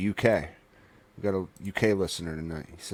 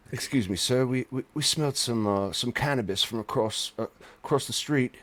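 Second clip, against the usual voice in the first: imitating a British cop; 3 semitones higher than usual. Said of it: "that's how I imagine they would say".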